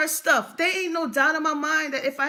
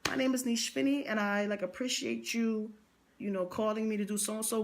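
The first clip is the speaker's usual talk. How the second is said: a lightly mocked polished business voice; rehearsing a professional call in the mirror; rehearsed phone intro; 3 semitones lower, 7 dB quieter than usual. Shown as a demonstration. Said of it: "practicing in the mirror speaking like".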